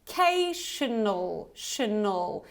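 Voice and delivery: Cational slowly, then Tional as "shuh-nul"; double schwa. Shown as a demonstration. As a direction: break out Cational and Tional with both final vowels weak. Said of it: "we have double schwa here".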